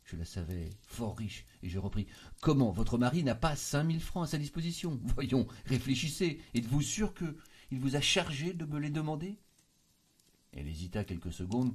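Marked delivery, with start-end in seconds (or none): 2.4-9.4 high, louder astonished protest; raised pitch, urgent disbelief; incredulous questioning. A narrator's reading. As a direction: press her in disbelief. Stupefied narrator questions his cousin.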